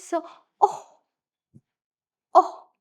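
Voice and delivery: Oh as short o like orange; a short o for Oh after missing the orange; short O sound. Shown as a demonstration. Teacher acting out missing the orange, short o. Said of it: "you miss the orange".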